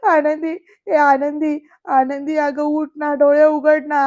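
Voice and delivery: loud, slow pleading calls; anguished calling. Retold or imitated. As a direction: beg her to open her eyes, calling out. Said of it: "कळवळून इथे आनंदीला हाका मारतायत". (कळवळून मोठ्याने हाका, हळू)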